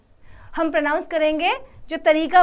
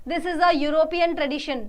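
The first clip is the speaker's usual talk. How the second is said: slow model sentence; much slower than usual. Shown as a demonstration. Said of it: "model sentence for class".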